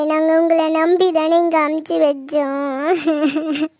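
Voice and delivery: low, slow tearful lament; grieving wife blaming the family, low and tearful; tearful pleading. Acted. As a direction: plead through grief, voice sinking. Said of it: "அழாதம்மா".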